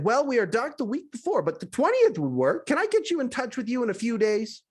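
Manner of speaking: a hint of a bright, cheerful receptionist, rising a little; breezy and friendly, lightly played; lightly voiced flamboyant man. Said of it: "cheerful and flamboyant".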